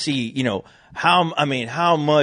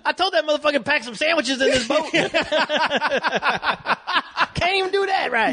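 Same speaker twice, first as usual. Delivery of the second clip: mock daddy grumbling. Host voicing a grumpy father blaming the boy. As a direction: whine the blame through a laugh.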